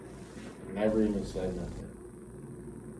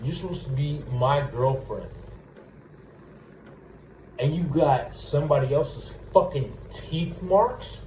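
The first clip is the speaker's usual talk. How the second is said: angry rant; 2 semitones higher, 4 dB louder than usual. Acted. Imagined rant at girlfriend.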